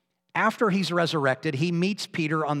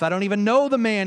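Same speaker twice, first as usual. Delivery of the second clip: louder, higher, fast and sharp denial; heated oath of denial; denying with an oath; 6 semitones higher, 5 dB louder, faster than usual. Acted. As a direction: snap the denial back fast. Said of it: "this time with an oath".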